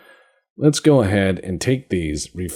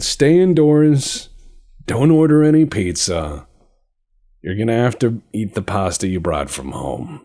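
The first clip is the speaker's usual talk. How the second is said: higher, louder order easing to usual voice; issuing orders; 3 semitones higher, 5 dB louder than usual. Retold or imitated. Player ordering his navy to stay in port, mock commanding. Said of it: "I just said".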